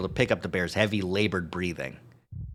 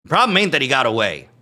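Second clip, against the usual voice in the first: screeching weasel; 6 semitones higher, 9 dB louder than usual. Acted. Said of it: "Duke is practically screeching".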